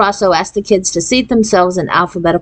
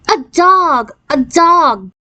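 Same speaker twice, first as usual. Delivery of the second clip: excited shriek; 9 semitones higher, much slower than usual. A narrator's reading. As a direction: shriek it with joy like a little girl. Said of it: "Jan shrieked".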